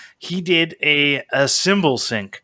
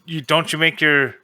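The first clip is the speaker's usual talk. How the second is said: put-on Kiwi accent; 3 semitones higher than usual. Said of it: "You're doing a Kiwi accent thing".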